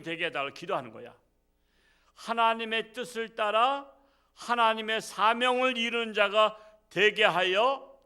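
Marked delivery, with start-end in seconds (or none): 2.1-8.0 raised, loud praying voice; fervent pulpit prayer; model prayer. Acted. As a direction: pray it out, higher and louder.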